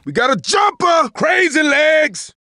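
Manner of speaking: urgent shouted callout; shouted warning. Acted. Calling out an enemy sighting.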